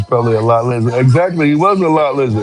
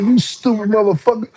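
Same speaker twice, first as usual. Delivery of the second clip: retold insult; 9 semitones higher than usual. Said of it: "Man, I was so pissed".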